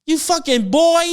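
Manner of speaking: high, slow taunting jeer; mocking heckler voice. Fans heckling the star, high jeering voice. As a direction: jeer at him like a rowdy fan. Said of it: "they was like".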